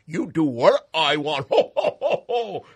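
loud high ho-ho cackle; evil Santa laugh. Acted. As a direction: gloat with a booming laugh. Santa dominating Rudolph.

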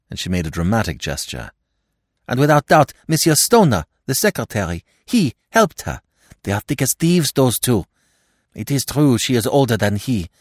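high, quick Frenchwoman's voice with a bitter edge; bitter gossip. Acted. Martha gossiping bitterly to Hastings about the widow. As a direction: spill the gossip, sneering at the widow. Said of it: "There was a hint of bitterness in her tone".

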